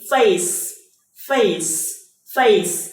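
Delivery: "face" with its CE said as S; S ending sound. Shown as a demonstration. Teacher modelling for students, "face" with a final S sound. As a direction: say "face" three times, separately, ending in S. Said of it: "Từ này các bạn sẽ đọc là gì?".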